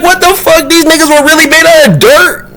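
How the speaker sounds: very high incredulous squeal of a question; acted astonishment. Vlogger stunned that people came from dirt, astonished. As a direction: hold it high in mock disbelief.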